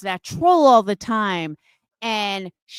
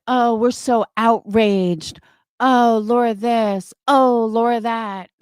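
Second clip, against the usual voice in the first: slow, mildly louder mock of their fake outrage; sarcastic mimicry of the trolls; 4 dB louder than usual. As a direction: parody the whining complainers. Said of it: "I told Adrian, I said".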